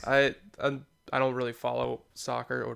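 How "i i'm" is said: ordinary delivery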